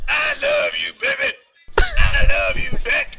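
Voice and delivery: very high American accent; squeaky hammed-up American accent. Shown as a demonstration. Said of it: "do an American accent".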